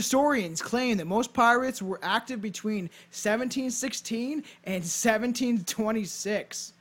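storyteller read with punched key words; measured, emphatic read-aloud; scripted narration. Acted. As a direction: present it like a podcast history script. Reads a scripted history.

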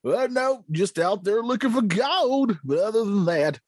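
a grizzled gold-digger talking; old prospector. Pretend. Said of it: "old Prospector, do you got anything?".

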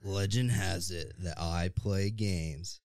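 slow, drawn-out legend narration; half-serious fantasy trailer read; epic narrator voice. Shown as a demonstration. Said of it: "you nailed it".

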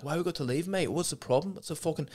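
high, quiet put-on heckler voice; protesting heckler. Heckler objecting to being asked to leave, mock protest.

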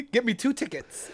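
put-on high, eager child voice; excited kid voice. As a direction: beg like a little kid. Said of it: "six-year-old me".

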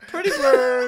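high, slow squawky pretty bird; parrot voice. Retold or imitated. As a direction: squawk it like a kid talking to a bird. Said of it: "the blind kid from fucking Dumb and Dumber".

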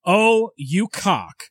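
hammed-up drunken rant, dragging the words; drunken rage. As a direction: read your drunk notes like you're still seething. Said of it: "read you exactly what I wrote in my drunken state".

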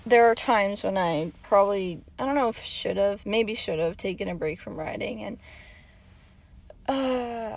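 raspy, hoarse throat; talking through a hoarse, dry throat. Real, not acted. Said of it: "I sound like a smoker".

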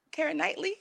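soft, high, strained question; real strained, constipated-sounding guess. Real, not acted. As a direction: squeeze it out softly, high and unsure. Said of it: "you sound constipated when you said that".

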